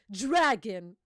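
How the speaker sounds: low, emphatic single word; underwhelming attack call. Acted. Mocking Kaido's plain attack name, low mock-heroic call. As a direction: drop low and loud on Dragon.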